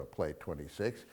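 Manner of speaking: soft and slow, the whisper he does not use; whispered take. Shown as a demonstration. Showing how Rick does not say it, a quiet whisper. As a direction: breathe it low, Play twenty-six. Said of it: "Now, he doesn't whisper".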